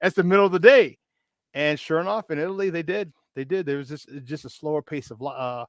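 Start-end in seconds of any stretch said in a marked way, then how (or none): 0.0-1.0 higher and louder disbelief; can't believe it, building louder; incredulous. Retold or imitated. Young American shocked that shops close at midday, in louder, higher disbelief. Shocked by Italian siesta hours.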